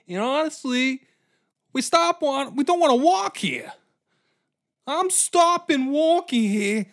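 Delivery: high, loud complaining rant; whiny soldier rant. Acted. Soldiers complaining to Alexander, high and loud. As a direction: rant about walking like a fed-up New Yorker. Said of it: "Dustin Hoffman pontification".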